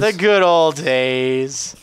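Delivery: put-on slow, drawn-out old man voice. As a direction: croak it like an old grandpa.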